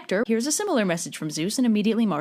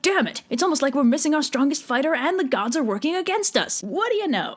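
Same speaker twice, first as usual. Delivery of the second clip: mock Agamemnon; 5 semitones higher than usual. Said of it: "So Agamemnon's like".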